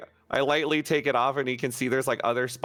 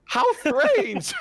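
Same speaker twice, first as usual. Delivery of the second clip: Nibbles; 5 dB louder than usual. Acted. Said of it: "like, loudly".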